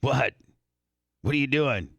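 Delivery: blunt insults, spaced out with pauses; mock-rude reply. Host imitating how the sister talks to them, mock-abusive. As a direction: trade abuse in good fun. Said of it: "that's how she talks to me".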